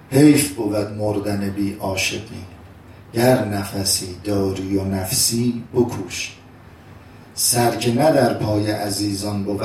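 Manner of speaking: slow, measured poetry reading; poem recitation. Acted. Preacher reciting verses to the congregation, slow and measured. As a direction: let each verse land slowly.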